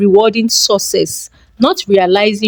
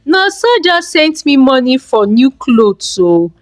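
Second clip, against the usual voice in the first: higher, eager excitement; excited; 5 semitones higher than usual. Acted. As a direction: gush about the money from her son. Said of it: "she said excitedly".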